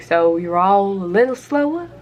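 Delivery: put-on Georgia accent. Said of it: "had to do a Georgian ac".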